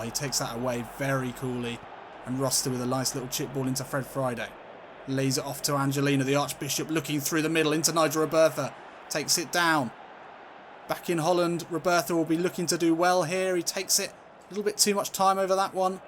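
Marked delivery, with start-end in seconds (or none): 5.1-16.0 lively, slightly raised football commentary; live play-by-play. Real, not acted. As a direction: follow the passes with growing energy.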